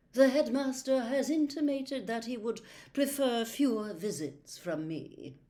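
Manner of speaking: cold, haughty, slowing at the end; coldly. A narrator's reading. Trelawney snubbing Harry's suggestion, cold. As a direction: freeze him out. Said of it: "she said coldly".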